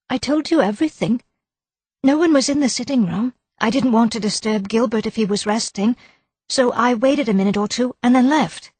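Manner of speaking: insist, worried and defensive; nervous wife. A narrator's reading. Wife insisting to the inspector she saw nobody. Mrs Gower voiced higher.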